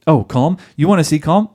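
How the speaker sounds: mock-combative, rising challenge; sarcastic attack. Wife answering husband's call for calm, sarcastic challenge. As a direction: throw the word back with sarcasm. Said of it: "The sarcasm, the attacks".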